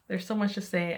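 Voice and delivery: breathless, sighing between words; out of breath. Real, not acted. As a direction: talk short of breath from a heavy belly. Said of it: "I'm out of breath".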